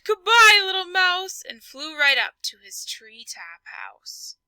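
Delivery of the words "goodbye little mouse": higher, louder hasty goodbye; panicked owl. Acted. Owl saying goodbye in a panic. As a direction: blurt it and fly.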